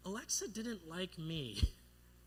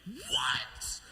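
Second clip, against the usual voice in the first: high, loud mock shriek; outraged disbelief; 10 semitones higher, 5 dB louder than usual. Boy told he goes to hell, shrieking disbelief. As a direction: yelp it in disbelief.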